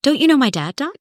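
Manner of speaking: half-yelled imagined protest at strangers; mock exasperated outcry. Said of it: "I just wanted to yell and go".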